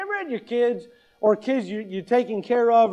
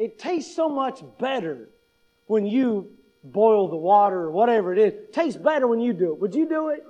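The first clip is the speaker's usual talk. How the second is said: coaxing wife. Retold or imitated. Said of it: "But what I will say to her is".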